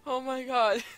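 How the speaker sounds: loud, high-pitched we are so lucky; overjoyed. Real, not acted. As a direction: cheer it like you just escaped. Overjoyed after close call.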